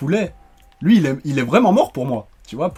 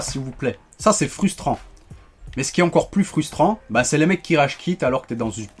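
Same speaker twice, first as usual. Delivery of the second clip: normal talking voice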